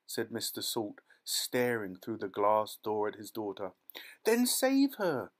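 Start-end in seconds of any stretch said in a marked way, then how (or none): 4.2-5.3 high, loud, slow plea; desperate cry. A narrator's reading. Mother crying out to save her daughter. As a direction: beg with rising panic. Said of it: "cried Missus Salt".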